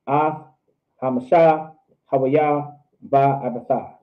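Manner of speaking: slowly, word by word with gaps; slow teaching demonstration. Shown as a demonstration. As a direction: separate each word with a clear pause. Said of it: "You can say it slow".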